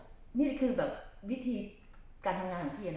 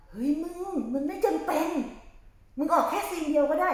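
emphatic pep talk; 8 semitones higher, 6 dB louder than usual. Retold or imitated. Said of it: "พี่จะบอกให้ว่า".

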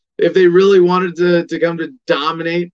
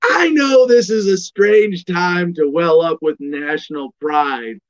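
Kyle Kinane; 5 semitones higher, slower than usual. Retold or imitated. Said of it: "And Kyle goes".

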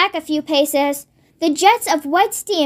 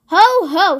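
a short mock-triumphant ho ho, a little louder; triumphant cry; 4 dB louder than usual. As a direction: gloat lightly, catching someone out. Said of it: "she cried".

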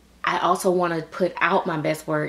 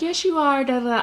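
higher, sing-song mock compliment; mock reassurance; 8 semitones higher than usual. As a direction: parody fans gushing on cue. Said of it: "you guys to be like".

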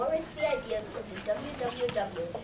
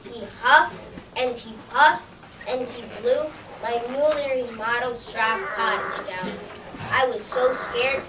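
distressed pig; 7 dB louder than usual. Acted. Pig in an insurance ad complaining about the wolf, loud and upset.

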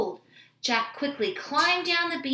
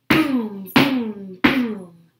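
loud booms, each falling in pitch; booming footsteps; 9 dB louder, much slower than usual. A narrator's reading. Narrator imitates the approaching giant's footsteps, loud booming. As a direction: boom out each heavy step.

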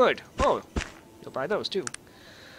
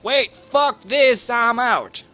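mock outburst; 6 semitones higher, 6 dB louder, slower than usual. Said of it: "he's like".

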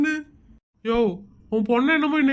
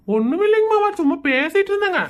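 feigned innocence; 5 semitones higher than usual. Acted. Caught out, innocent reply.

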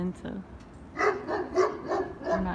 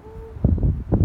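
excited ooh; 9 dB louder than usual. Real, not acted. Reacting to a cool sight.

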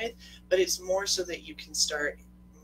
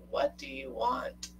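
mock yell; 9 semitones higher, slower than usual. Quoting Noah in The Notebook, mock yell. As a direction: draw it out high, imitating a yell without the volume. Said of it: "Noah's yelling".

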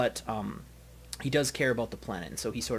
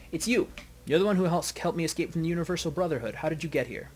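startled elf, higher and louder at first; excited recognition; 4 semitones higher, 4 dB louder than usual. Acted. Elf greeting the one who rescued her, excited. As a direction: burst out in recognition, then settle.

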